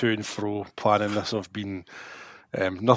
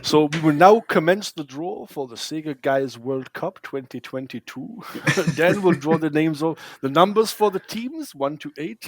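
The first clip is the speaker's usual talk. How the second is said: playfully formal, higher-pitched draw host; mock draw announcer; 4 semitones higher than usual. Host opens the Sega Guys World Cup draw, mock-official announcer.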